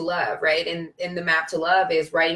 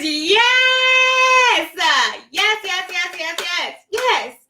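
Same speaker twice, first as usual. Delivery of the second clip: high joyful yelps of yes; ecstatic yes; 10 semitones higher, 4 dB louder, slower than usual. Real, not acted. To her viewers after the mantra, high ecstatic yeses. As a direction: celebrate like a win.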